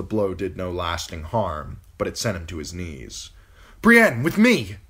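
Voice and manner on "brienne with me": high, loud sharp order; command. Acted. Catelyn ordering Brienne to escape with her, loud. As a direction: call her to follow you at once. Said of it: "Catelyn commanded".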